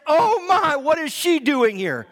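mock disapproval. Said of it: "you're gonna say".

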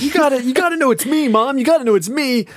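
very high, fast mock-hysterical begging; hysterical pleading. Moomin begging his mom to know him, mock-hysterical. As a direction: imitate a frantic child begging to be recognized. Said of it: "hysterically crying a lot".

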